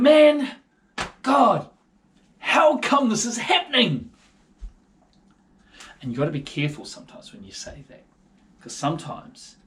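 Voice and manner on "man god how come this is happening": raised, exasperated plea upward; frustrated cry to God. Retold or imitated. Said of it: "Gideon was there going".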